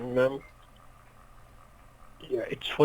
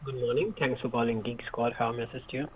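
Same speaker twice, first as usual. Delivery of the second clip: muffled; 8 dB quieter than usual. Real, not acted. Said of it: "you sound muffled".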